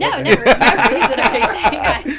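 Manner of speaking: loud protest through real laughter; laughing denial. Real, not acted. Guest teased about having guns, laughing denial. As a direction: laugh hard while denying it.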